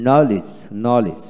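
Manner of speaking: slow নলেজ as "no-lij", no d; silent d. Shown as a demonstration. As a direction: draw out নলেজ without a d before the final sound. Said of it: "নলেজ দিয়ে উচ্চারণ হবে না". (ডি ছাড়া ধীরে নলেজ)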